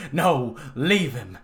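slow, low solemn preacher voice; mock priest. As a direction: intone it like a revival priest.

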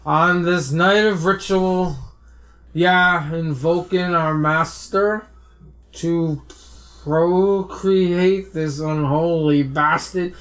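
masturbating voice. Acted. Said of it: "Do it in your best masturbating voice".

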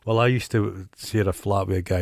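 usual speaking voice

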